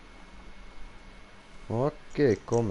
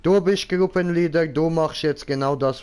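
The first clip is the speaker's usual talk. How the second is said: insistent loud; 6 semitones higher, 4 dB louder than usual. Real, not acted. Insisting other leads.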